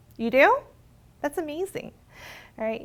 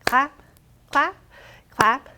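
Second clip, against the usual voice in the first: plain reading voice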